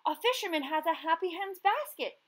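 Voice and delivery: excited shout to a friend; shouting from afar. A narrator's reading. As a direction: yell the news from a bike cart. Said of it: "he shouted".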